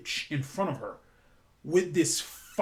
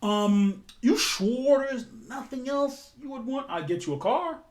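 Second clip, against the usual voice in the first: high, wheedling offer, pitched way up; coaxing high voice; 9 semitones higher than usual. Retold or imitated. Lillian bribing Ali, in a coaxing high voice. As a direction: sweeten the deal in a much higher voice.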